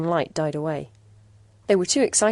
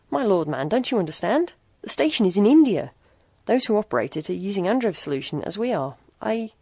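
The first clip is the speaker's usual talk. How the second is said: excited; 3 semitones higher, 4 dB louder than usual. Acted. Doctor's urgent realization.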